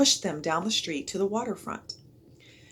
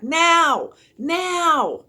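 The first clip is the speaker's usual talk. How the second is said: higher, louder urgent cries; shouted; 11 semitones higher, 10 dB louder than usual. A narrator's reading. Jack urging the crowd to run, loud repeated shouts. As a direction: hammer each word at them. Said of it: "shouted Jack".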